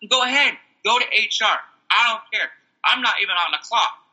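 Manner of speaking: high-pitched dismissive comeback; retold defiance. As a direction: call the coworker's bluff.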